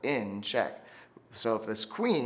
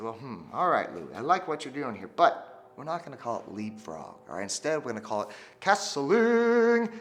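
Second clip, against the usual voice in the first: fair king voice; 4 dB louder than usual. Acted.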